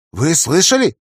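alarmed. Acted. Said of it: "насторожилась Спекула".

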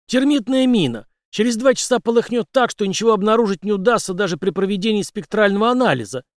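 a confident ex-captain explaining his trick; Henry's voice. Acted. Henry explains the thermite mine.

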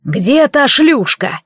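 slow, lightly voiced demon sneer. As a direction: drag it out with contempt.

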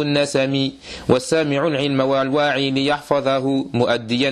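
measured, even-toned chant of classical Arabic verse; poem recitation. Acted. Teacher reading the Sheikh's didactic poem to students, chanted recitation. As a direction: recite verse in a steady, continuous cadence.

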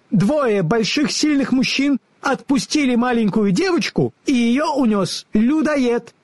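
high, squeaky scolding squirrel; squeaky squirrel full of derision; mocking squirrel. A narrator's reading. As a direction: taunt them in a tiny animal voice. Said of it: "насмешливое чоканье белки".

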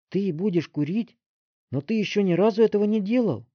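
put-on high, loud boy's protest; shocked objection. A narrator's reading. Roy objecting to his friend smoking, shocked. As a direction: object in disbelief. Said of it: "возразил Рой".

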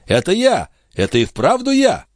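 high-pitched joyful insistence; excited son. A narrator's reading. Son reassures amazed father. (взволнованно, высоким голосом)

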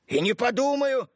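flaring up. A narrator's reading. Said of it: "неожиданно взвился Иванов".

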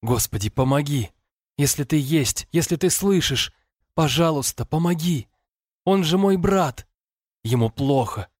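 высокая, надрывная молитва сквозь страх; молись, почти срываясь на крик; отчаянная мольба. A narrator's reading. (умоляет Бога спасти брата, в отчаянии)

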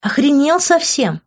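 high, loud indignant yell; shouted outrage. A narrator's reading. She shouts at Grant in outrage, high and loud. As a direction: fling it at him, outraged. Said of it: "закричала я".

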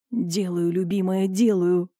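ordinary talk

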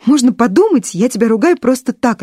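high, indignant retort; indignant scolding. Acted. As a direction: scold him, voice up. Stepmother scolds boy.

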